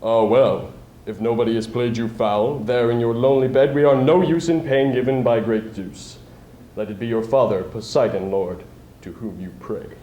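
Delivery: a hint of wise neighbours shrugging it off; sage reply. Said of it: "they made a sage reply".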